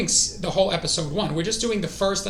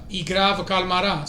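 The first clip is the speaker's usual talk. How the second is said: Italian-sounding Russian. Shown as a demonstration. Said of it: "I made it sound Italian".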